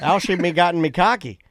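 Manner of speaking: tentative copy of a Newfoundland greeting; attempted Newfoundland accent. Shown as a demonstration. Host trying out the guest's greeting, attempted Newfoundland accent. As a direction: have a go at Newfie talk. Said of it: "I can do that".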